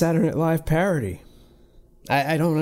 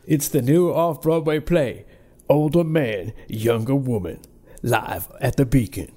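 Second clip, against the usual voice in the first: mock theater ad. Joking about awful off-Broadway shows, mock announcer read.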